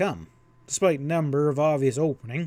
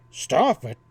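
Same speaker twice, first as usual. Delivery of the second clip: snorting; 5 dB louder than usual. A narrator's reading. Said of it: "Ezra snorted".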